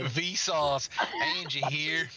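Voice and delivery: put-on Vsauce greeting in a Texas accent; lightly put-on Texas twang. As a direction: open the video like a Texan host. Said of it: "Vsauce in the Texas accent".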